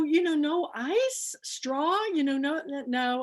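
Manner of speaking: lightly voiced picky customer; asking for no ice at the counter; retold order. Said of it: "I go".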